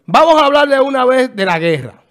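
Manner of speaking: más alto y fuerte, abriendo el tema; lánzalo con energía de presentador; arranque enérgico. Real, not acted. (arranque animado y fuerte)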